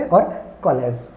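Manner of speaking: slow कॉलेज with lips spread; drawn-out कॉलेज, ऑ between आ and ओ; कॉलेज said slowly with spread lips. Shown as a demonstration. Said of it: "होठ फैलेंगे थोड़े से".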